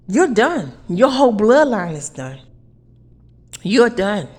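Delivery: loud furious declaration; angry. Real, not acted. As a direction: bark the verdict at them. Angry rant at enemies.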